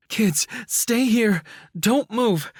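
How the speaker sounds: high, loud, slow frantic command; mother shouting orders at her kids outside the burning house; mother demanding. A narrator's reading. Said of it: "our mother demanded".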